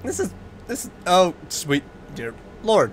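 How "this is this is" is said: stiff robotic intro voice; flat, mechanical robot-like delivery. Real, not acted. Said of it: "Why did I sound like a robot right there?".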